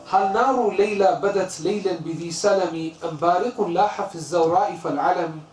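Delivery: quick, rhythmic recitation of classical Arabic verse; Arabic verse recited fast; poem recitation. Acted. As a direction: recite the couplet in flowing chant.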